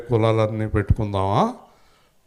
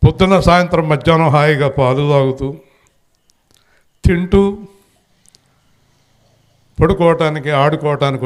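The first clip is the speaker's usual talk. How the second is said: mocking list; 5 semitones higher, 5 dB louder than usual. Mocking idle life list.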